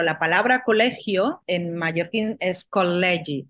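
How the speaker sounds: "col·legi" with a long, held double L in the middle; doubled L. Shown as a demonstration. Explaining Mallorcan sounds to the interviewer, stretched double L. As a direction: lean on the L of "col·legi", holding it twice as long. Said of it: "resaltamos el sonido L".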